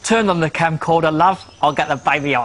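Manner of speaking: a cheeky Cockney read of the line; Cockney accent. Shown as a demonstration. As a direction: lean into the Cockney vowels and glottal stops, but only lightly. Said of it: "That's Cockney accent".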